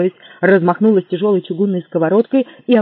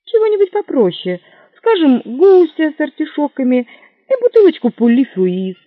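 hopeful order; 9 semitones higher, 6 dB louder than usual. Acted. Lafayette orders grandly.

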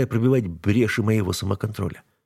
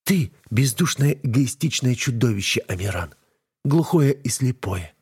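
young woman, voiced higher, bitter and defiant; higher-pitched wife hurling accusations; 4 semitones higher than usual. A narrator's reading. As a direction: read the wife's lines higher, with hurt scorn. Wife berates husband in bed.

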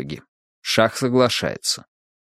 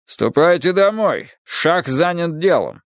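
vast deep cosmic voice; 6 semitones higher than usual. Acted. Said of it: "доносящийся изнутри громовой голос".

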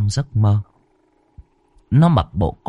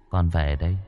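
low, much softer hollow voice of a dead son; eerie ghost child; 3 semitones lower, 6 dB quieter, faster than usual. Acted. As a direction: speak like a ghost come home at night. Ghost son speaks to mother. (giọng hồn ma đứa con, trầm và nhỏ)

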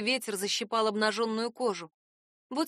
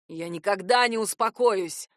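slow, louder furious yell; angry shout; 2 semitones lower, 5 dB louder than usual. Acted. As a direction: throw each word at her in rage. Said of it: "зло крикнул он".

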